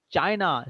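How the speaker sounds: CHIna, first syllable stressed; China with strong first syllable. Shown as a demonstration. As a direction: lean on the opening of China. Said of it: "stress is on China".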